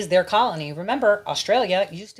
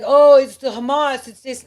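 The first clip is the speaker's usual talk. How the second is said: loud, drawn-out, higher mimicking whine; mock outcry; 4 semitones higher, 9 dB louder than usual. Imitating viewers blaming the wrong culprit, mock outcry. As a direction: mimic a naive objection, loud and stretched. Mimics the listeners' expected objection.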